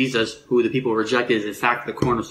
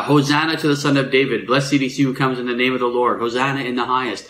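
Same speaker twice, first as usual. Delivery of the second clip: crowd shouting praise. Retold or imitated. Preacher voicing the crowd greeting Jesus: mild joyful acclaim. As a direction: echo the crowd hailing him, understated. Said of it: "and they're shouting".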